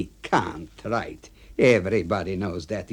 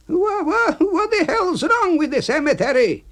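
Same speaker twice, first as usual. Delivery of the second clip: stammering, much higher and louder; stunned A B; 6 dB louder than usual. Acted. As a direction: sputter in disbelief. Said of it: "he's asking me".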